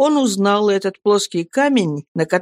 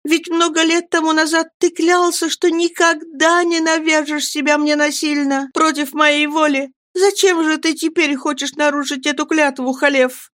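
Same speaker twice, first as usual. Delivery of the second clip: young woman voiced much higher, earnest; young Miriam; 10 semitones higher than usual. A narrator's reading. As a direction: refuse him gently but firmly, high voice.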